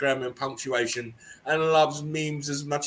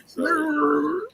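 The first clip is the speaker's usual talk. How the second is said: laughing apology; 12 semitones higher, slower than usual. Real, not acted. Apologising mid laughing fit.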